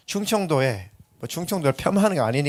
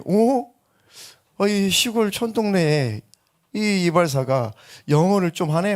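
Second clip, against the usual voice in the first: surprised foreigner; 4 semitones higher, slower than usual. Retold or imitated. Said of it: "이 외국인이".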